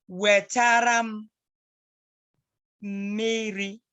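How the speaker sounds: Wetaram drawn out slowly, then miri; slow model. Shown as a demonstration. Teacher modelling Wetaram miri for the child.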